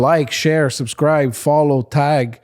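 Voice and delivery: slow mock podcast sign-off; drawn-out like and subscribe plea; podcast host outro. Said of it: "in podcasts they say".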